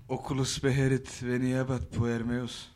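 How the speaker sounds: throaty incantation. Acted. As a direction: intone the spell from the throat. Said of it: "Biraz gırtlaktan okudu".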